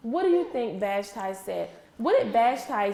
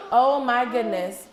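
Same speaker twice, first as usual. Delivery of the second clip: laughing delight; 5 dB louder, slower than usual. Acted. Marvelling at colours in the story.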